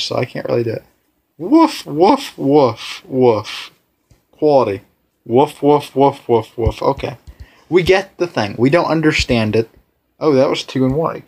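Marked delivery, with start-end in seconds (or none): 1.4-6.8 mock dog barks. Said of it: "I don't know how to do woof in a different voice".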